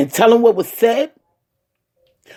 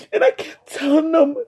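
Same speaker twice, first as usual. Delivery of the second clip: crying; 5 semitones higher than usual. Real, not acted. Recounting brother's death, crying.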